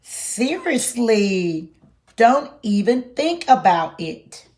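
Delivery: don't you dare, said with force; stern warning. Acted. Larry warns reader off button.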